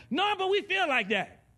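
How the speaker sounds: voicing emotions.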